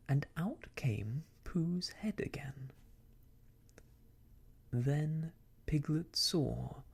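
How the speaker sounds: measured, deliberate storybook reading; story narration. A narrator's reading. Reads a story aloud.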